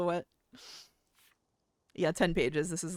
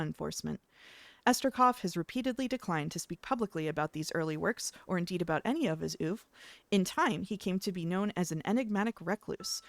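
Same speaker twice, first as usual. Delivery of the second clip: polished video essay narrator; YouTuber voice. Shown as a demonstration. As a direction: read it like a YouTube explainer. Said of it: "This is my YouTuber voice".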